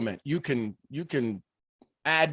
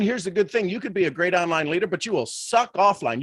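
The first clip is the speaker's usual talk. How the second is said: normal talking voice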